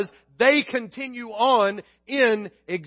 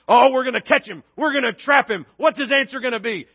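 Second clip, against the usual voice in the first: mock scheming glee; 4 semitones higher, 5 dB louder than usual. Mocking the plotting Sadducees.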